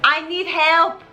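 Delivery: lightly put-on French accent; a high comic Lafayette in French accent. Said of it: "But do it in a French accent".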